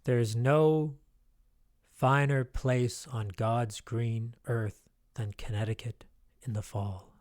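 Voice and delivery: lightly hammed-up movie voiceover; movie narrator line. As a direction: intone it like an old film voiceover. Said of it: "I heard that in a movie once".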